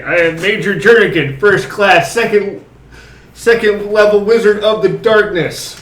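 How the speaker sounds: pompous wizard, slow and grand. Acted. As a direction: announce yourself like a dark wizard. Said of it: "In a deeper voice than my normal voice".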